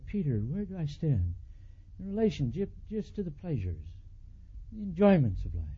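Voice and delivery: soft, tender questioning; gentle plea. Retold or imitated. Jesus tenderly asking Peter where he stands, soft. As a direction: ask it lovingly.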